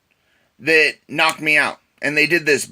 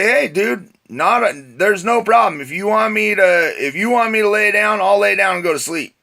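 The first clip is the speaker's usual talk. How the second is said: higher-pitched, lightly acted appeasing; mildly pleading retelling, pitched up; placating; 5 semitones higher than usual. Man to five big guys at his door, placating.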